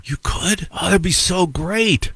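hammed-up gratitude; mock delight. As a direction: act thrilled and grateful. Feigned delight at offer.

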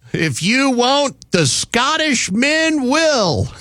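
drawn-out, laughing imitation of women yelling; mock yelling girls. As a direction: play the girls hollering at the men, laughing. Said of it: "the girls yelling out".

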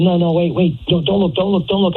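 high, urgent mock pleading; imitated panic. Retelling his date's panicked warning.

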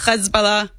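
"Hezbollah" opened with a guttural kh; throaty cha sound. Shown as a demonstration. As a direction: rasp the H of "Hezbollah" in the back of the throat. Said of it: "It's the cha".

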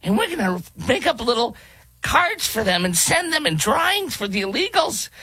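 put-on high, shouted children's host parody; mock kids' host. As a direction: squeal like a kids' show host.

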